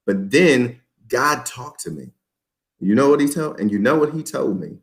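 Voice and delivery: suspenseful pauses before "God talked to me" and "you know what he told me"; pauses for effect. Shown as a demonstration. Coach shows how to build suspense in testimony, pausing for effect. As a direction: draw out "but then God talked to me", letting it hang. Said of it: "how to pause for effect".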